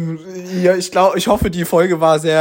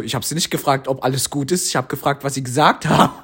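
dry, slightly lower put-down; retold dry rebuke; 3 semitones lower than usual. Imitating the lecturer answering the mumbler, dry. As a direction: deliver it drily, without raising the voice. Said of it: "wie die das so trocken gesagt hat".

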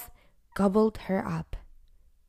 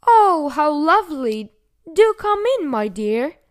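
loud, high fake-granny croak; croaking wolf; 7 semitones higher, 8 dB louder than usual. A narrator's reading. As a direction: croak sweetly like a wolf posing as grandma. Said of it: "croaked the wolf".

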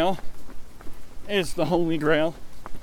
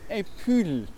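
put-on higher, French-accented "poodle"; Peter Sellers; 4 semitones higher than usual. Inspector answering a puzzled listener, mock French accent. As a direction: mangle puddle into "poodle". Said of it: "trying to do Peter Sellers".

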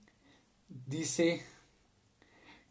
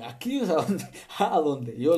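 excited; 4 semitones higher, 6 dB louder than usual. Real, not acted. Loud excited preaching.

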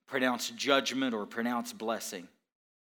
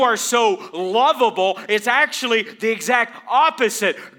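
higher, louder sermon climax; preaching at full force; 10 semitones higher, 13 dB louder than usual. Acted. Pastor to congregation about Isaiah seeing God's holiness, preaching at full force. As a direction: drive the question home, shouting.

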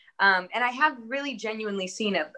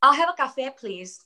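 mock Spanish accent; 6 semitones higher than usual. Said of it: "I don't go to Starbucks and say".

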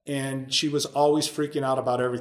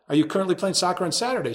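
repeats "Are you currently playing soccer on Saturday?" faster, a bit higher and puzzled; incredulous echo; 4 semitones higher, faster than usual. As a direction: echo the question back in disbelief, quickly.

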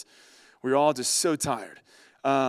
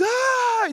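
mock scream. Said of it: "the entire van woke up and just screamed".

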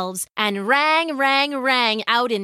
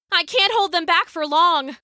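raised-pitch, strained urgency; shouted; 7 semitones higher than usual. A narrator's reading. Lydia holding off lions, shouting for help. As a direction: call for help under pressure, not at full volume. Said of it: "she shouted".

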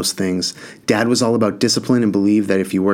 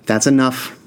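firm; 4 semitones higher than usual. Acted. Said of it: "Ma said firmly".

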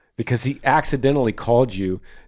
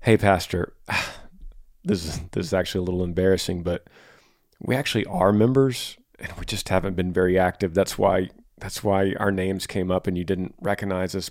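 humble apology; 6 semitones lower than usual. Retold or imitated. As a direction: sincerely own up, gently. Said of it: "the appropriate response from you could have been".

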